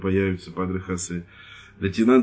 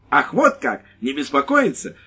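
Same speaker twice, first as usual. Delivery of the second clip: high, loud outraged cry; indignant exclamation; 6 semitones higher, 5 dB louder than usual. Acted. Wife outraged at the lieutenant, loud. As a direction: scoff it out in outrage. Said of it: "воскликнула женщина".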